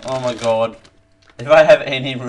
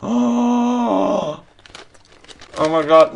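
surprised; 6 semitones higher, much slower than usual. Real, not acted. First taste reaction.

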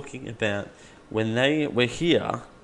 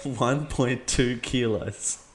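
repeating to voice assistant; much slower than usual. Real, not acted.

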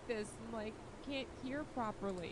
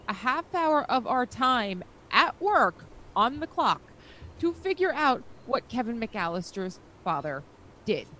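excited; 3 semitones higher, 15 dB louder than usual. Real, not acted. Excited story about work.

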